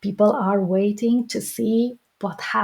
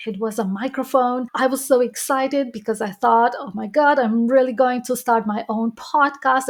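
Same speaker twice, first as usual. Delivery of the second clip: excited story; faster than usual. Shown as a demonstration. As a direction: tell it like you can't wait. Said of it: "this could be something like".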